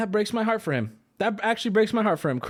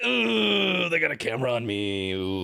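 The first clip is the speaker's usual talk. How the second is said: imitating Denzel; 4 semitones lower than usual. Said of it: "He's like".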